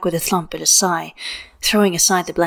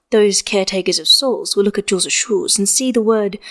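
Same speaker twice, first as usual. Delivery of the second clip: ordinary delivery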